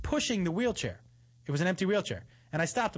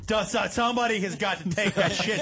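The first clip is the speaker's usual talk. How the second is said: mock disgusted. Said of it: "everybody within twenty yards is like".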